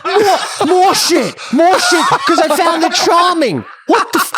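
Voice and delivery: high and loud, cracking up; giddy laughing confession. Real, not acted. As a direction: blurt it out while laughing hard. Laughing admission to friend.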